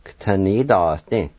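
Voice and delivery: "Ktanidaste" slowly, starting on a joined "kt"; slow, whole-word "Ktanidaste"; careful pronunciation. Shown as a demonstration. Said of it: "it's pronounced like this".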